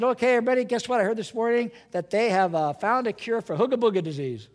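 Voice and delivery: a preacher pretending to announce a cure; mock announcement. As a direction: announce a cure with hammed-up cheer. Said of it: "If I stood up here and said".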